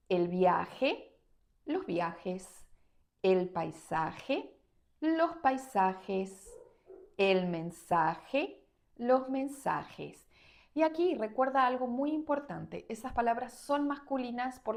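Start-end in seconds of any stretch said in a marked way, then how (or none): 0.1-10.3 very slow, spaced-out example list; slow model reading. Shown as a demonstration. Teacher reading examples slowly for students. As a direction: read each example slowly so learners can repeat. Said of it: "Veamos más ejemplos".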